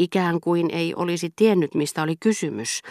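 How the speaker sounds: ordinary delivery, nothing marked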